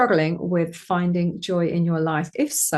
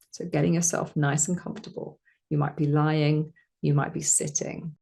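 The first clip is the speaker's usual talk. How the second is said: calm, slightly lowered meditation voice; guided meditation; 4 semitones lower, 5 dB quieter than usual. Acted. Meditation teacher settling listeners down, calm guiding voice. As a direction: ease the listener gently into settling.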